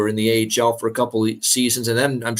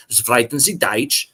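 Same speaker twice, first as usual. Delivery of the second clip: put-on slow movie villain German accent; drawn-out hammy German accent; fake German accent; slower than usual. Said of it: "fake, uh, German, uh, voice right there".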